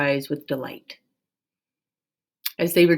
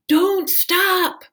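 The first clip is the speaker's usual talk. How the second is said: Amma's shout; 14 semitones higher than usual. A narrator's reading. Amma shouting up to the flying pair, cheerful. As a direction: call out to them as they fly. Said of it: "Amma shouted".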